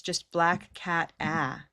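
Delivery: "black cat, ah" dengan "ah" panjang dan datar; demo vowel. Shown as a demonstration. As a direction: tahan "ah" tanpa mengubah bunyinya. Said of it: "demonstrate black for us".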